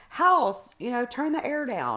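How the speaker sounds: mild mock call to the house. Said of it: "yell into the air like".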